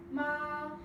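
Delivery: ma held high and level; first tone ma. Shown as a demonstration. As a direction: sing ma on one flat high pitch. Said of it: "for tone one".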